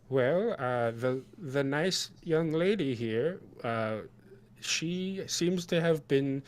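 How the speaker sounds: high, slow, hesitant character; Sen. Acted. Sen presents the injured young lady to Farguild, high and hesitant. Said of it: "Sen says".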